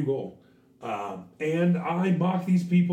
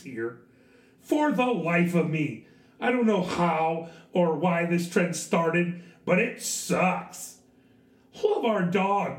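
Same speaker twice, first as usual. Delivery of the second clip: white voice; 3 semitones higher, slower than usual. Acted. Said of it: "not my best white voice".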